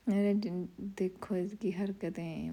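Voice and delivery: slow hushed whisper. Real, not acted. Mom whispers to viewers to watch her son's antics. Whispered aside about son.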